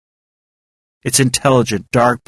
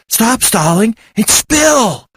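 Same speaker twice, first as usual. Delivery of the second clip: high, slow impatient yell; 11 semitones higher, slower than usual. A narrator's reading. Willow snapping at Val during thunder, impatient yell. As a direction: demand it over the thunder. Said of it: "Willow yelled".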